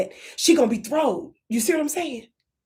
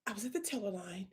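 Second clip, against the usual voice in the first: much softer, barely there; soft fragile voice; 16 dB quieter, faster than usual. Shown as a demonstration. Comedian demonstrating soft victim voice for the manager. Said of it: "You tell them what happened".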